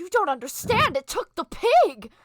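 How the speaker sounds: high and loud, insisting; frustrated Dragonborn. Acted. Dragonborn protesting to the party, loud and upset. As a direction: hammer home the loss. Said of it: "is like".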